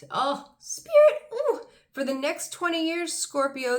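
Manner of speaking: high, loud burst with a laugh; excited outburst. Real, not acted. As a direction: gasp up with delight at the card. Sudden thrill from the cards.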